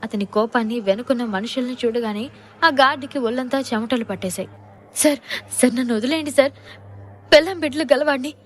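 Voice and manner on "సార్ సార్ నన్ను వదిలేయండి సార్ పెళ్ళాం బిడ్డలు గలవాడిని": a touch of scared begging; understated frightened pleading; mild trembling plea. Acted. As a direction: beg for mercy, rising higher. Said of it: "వణుకుతున్న స్వరంతో బ్రతిమలాడుకున్నాడు".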